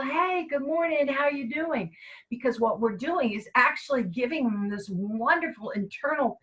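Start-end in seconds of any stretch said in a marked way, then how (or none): 0.0-2.0 friendly greeting. Shown as a demonstration. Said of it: "we greet everyone with a smile".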